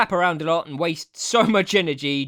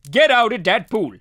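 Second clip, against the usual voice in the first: urgent warning; 3 semitones higher, 5 dB louder than usual. Pretend.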